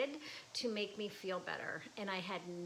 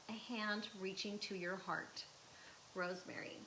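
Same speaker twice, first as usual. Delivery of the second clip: poem reading. Real, not acted. Artist reading her late daughter's poem, tender and hushed. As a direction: read it like a gift to the dead. Reads a memorial poem aloud.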